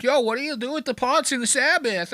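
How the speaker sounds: high New York Jewish voice; New York Jewish accent. Retold or imitated. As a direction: ask about pots like a put-on New York Jew. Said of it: "like you were a Jew in New York".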